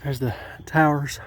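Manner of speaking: panting between phrases; winded, catching breath while talking. Real, not acted. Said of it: "Sorry, I'm out of breath".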